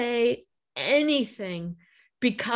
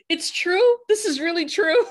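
laughing disbelief; 9 semitones higher, 5 dB louder than usual. Real, not acted. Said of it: "And I'm like".

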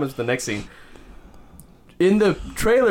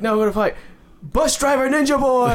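hammed-up announcer; 9 semitones higher than usual. Announcer introducing Shang-Chi to the crowd, hammed-up announcer voice. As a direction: hype the fighter to the crowd.

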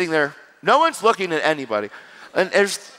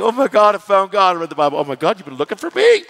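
mock excited discovery; 3 semitones higher, 4 dB louder than usual. Preacher voicing a new believer, excited. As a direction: act out the thrill of being found.

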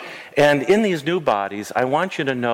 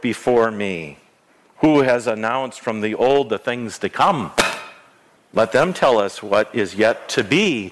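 God's voice. Retold or imitated. Pastor reads God's challenge to the people, mock proclaiming. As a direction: read it as God's bantering challenge. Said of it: "you gotta read it like".

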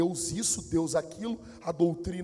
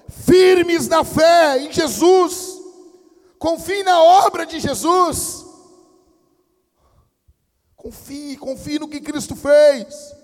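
slow, high, shouted exhortation; full-force preaching; 9 semitones higher, 17 dB louder, much slower than usual. Real, not acted. Preacher urging faith in Jesus, slow high shout. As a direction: cry it out to the whole congregation.

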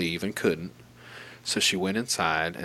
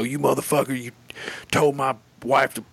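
higher, louder mock confrontation; a husband squaring up, lightly acted; hostile attitude; 6 semitones higher, 4 dB louder than usual. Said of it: "just kinda showing his ass".

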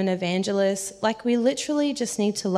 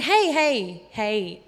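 retold urgent hey; calling after someone; much slower than usual. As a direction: call out to stop someone, then ease off. Calling after the fleeing woman.

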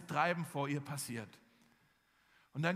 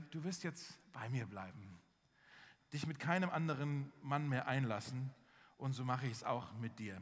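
gentle; 5 semitones lower, 4 dB quieter than usual. Acted. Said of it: "dass Hosea ganz sanft zu ihr spricht".

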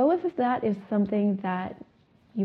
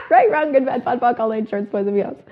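still laughing; 3 semitones higher, 7 dB louder than usual. Real, not acted. Still laughing through clearing.

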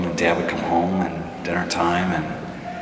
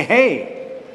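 put-on whiny child; 6 semitones higher, slower than usual. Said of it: "And I'd say".

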